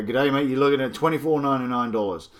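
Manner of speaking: badly faked Aussie accent; awful Australian accent. Reviewer giving the price to Australians, awful Aussie accent. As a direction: put on a hammy Australian accent. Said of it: "that was an awful accent now".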